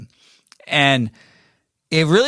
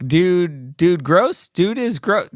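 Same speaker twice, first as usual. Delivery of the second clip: kindergartner; 7 semitones higher, much slower than usual. Retold or imitated. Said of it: "Okay, kindergarten".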